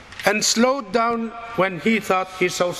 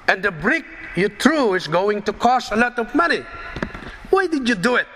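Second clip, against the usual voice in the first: angry shout; 6 semitones higher than usual. A narrator's reading. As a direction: yell at him, outraged about the new car.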